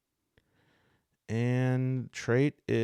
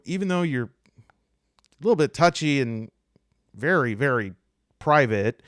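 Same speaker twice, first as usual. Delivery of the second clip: higher, louder, rambling lead-up; awkward, hesitant request; 6 semitones higher, 7 dB louder than usual. Acted. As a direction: stumble nervously toward asking a favour.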